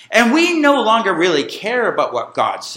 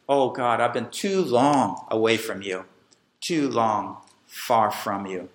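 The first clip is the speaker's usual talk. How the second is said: hushed prayer; 9 semitones lower, 6 dB quieter than usual. Acted.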